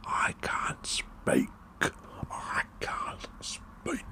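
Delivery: slow, drawn-out whispered commentator cry; Wayne Mardell. Retold or imitated. Fan imitating a commentator at the nine darter, whispered awe. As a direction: stretch each word out, whispering an overwhelmed commentator. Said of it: "Wayne Mardell was like".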